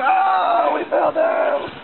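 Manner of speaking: playful excited exclaim. Real, not acted. Playful fall on trampoline.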